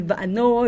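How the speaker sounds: "va'ano" with a final oh vowel; ending in "oh". Shown as a demonstration. Teacher showing possible readings, "va'ano" ending in oh. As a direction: say "va'ano", closing on oh. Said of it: "If there's no e".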